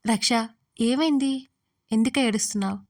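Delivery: loud, worried rush of questions; alarmed. A narrator's reading. Suma to her sobbing friend Raksha, loud and alarmed. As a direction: call out in sudden alarm. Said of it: "అని కంగారు పడింది సుమ".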